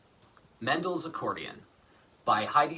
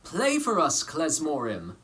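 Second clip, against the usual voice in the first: villagers asking; 2 semitones higher, 4 dB louder, slower than usual. Acted. Villagers' request in story.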